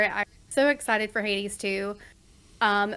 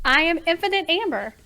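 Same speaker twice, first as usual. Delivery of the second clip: announcer intro; 7 semitones higher than usual. Acted. Streamer introduces herself grandly.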